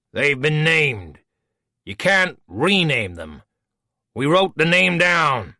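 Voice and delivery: a fussy villain defending his pet name; Voke, petulant. Acted. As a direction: huff that the name is settled. Voke frowned.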